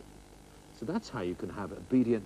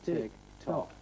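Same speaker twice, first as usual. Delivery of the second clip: speeding tick-tock; 5 semitones higher than usual. Shown as a demonstration. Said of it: "Faster and faster".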